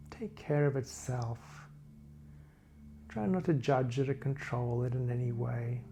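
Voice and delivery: calm body-scan narration, phrases spaced far apart; guided meditation. Real, not acted. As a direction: guide listeners gently through a body scan, unhurried.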